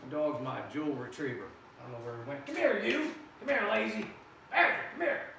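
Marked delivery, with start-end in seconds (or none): 2.5-5.3 loud, high coaxing call; calling the dog. Real, not acted. Coaxing the lazy dog to come, loud high call. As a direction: shout for the dog to come over.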